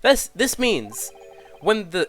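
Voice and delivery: lightly voiced juror, pushing his point; blunt juror laying out the lie; stern Russian juror.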